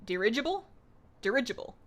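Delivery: "dirigible" with the second syllable stressed, rising at the end. Shown as a demonstration. Streamer testing a word's emphasis, second-syllable stress on "dirigible". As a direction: try out "dirigible", leaning on the RIDGE syllable, questioningly. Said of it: "The emphasis on the second syllable".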